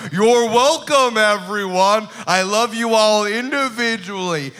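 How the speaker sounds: slow, loud, gracious monster; gracious kraken voice. Acted. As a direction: bask in the crowd's love. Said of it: "And he's like".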